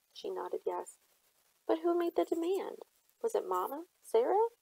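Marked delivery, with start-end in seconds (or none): 1.7-4.5 urgent questioning. A narrator's reading. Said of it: "girl demands who sold mother".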